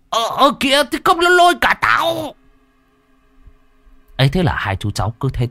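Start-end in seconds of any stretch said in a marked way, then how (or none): 0.1-2.3 high strained shout, being pulled; high panicked shout; panicked yell. Acted. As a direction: yell as the fish drags you in. Old man dragged by fish.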